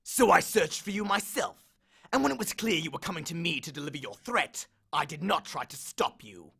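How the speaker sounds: lightly voiced bitter god; snarling. Hades snarls at Percy, mild bitterness. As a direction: grind out the grievance. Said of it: "Hades snarled".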